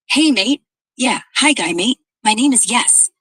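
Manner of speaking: loud, hammed-up echo of a greeting; mock shout. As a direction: shout it back like a mocking parrot. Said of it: "like you're shouting into a void".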